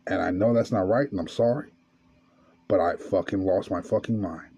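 a hushed, broken friend confessing; low, quiet tearful confession. Retold or imitated. Friend confessing the assault to Midnight, low and tearful. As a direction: murmur it low like a man near tears. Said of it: "telling me this in tears".

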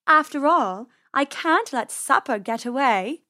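silky feline threat; purring cat. Acted. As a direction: toy with your prey. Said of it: "Persephone purred".

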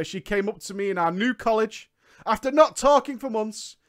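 ordinary delivery

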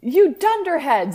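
high, loud, slow hammed-up yell; mock scream. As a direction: scream it like a cartoon headmaster. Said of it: "screamed Dumbledore wisely".

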